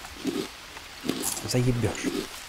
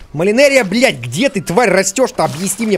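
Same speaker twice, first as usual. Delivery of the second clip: angry outburst; 3 semitones higher than usual. Real, not acted. Gamer yelling at the game for hiding the plant, angry.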